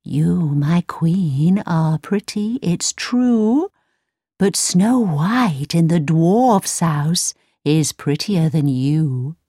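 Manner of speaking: slow, solemn mirror voice; lightly voiced oracle-like mirror; magic mirror. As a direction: tell the queen the hard truth slowly. The mirror answers the queen.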